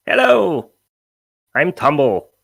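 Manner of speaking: high-pitched pixie greeting; perky pixie Tumble. Acted. Game master as pixie greeting the travellers, high and chirpy. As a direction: pipe up high and announce yourself.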